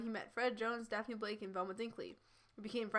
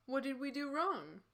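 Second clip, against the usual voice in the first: higher-pitched pouty question; pouting; 4 semitones higher than usual. Acted. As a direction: ask it with the lip poking out. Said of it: "he pouted".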